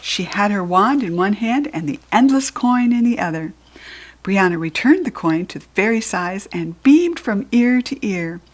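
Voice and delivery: ordinary delivery, nothing marked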